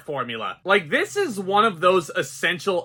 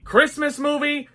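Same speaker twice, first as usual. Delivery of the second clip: scoffing dismissal; 9 semitones higher, 4 dB louder, slower than usual. Real, not acted. Scoffing at Christmas movie claim.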